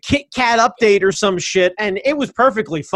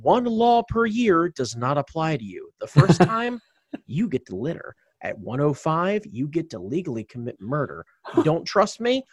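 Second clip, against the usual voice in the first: ringmaster. Pretend. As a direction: roll it out like a circus ringmaster. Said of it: "hit me with the intro".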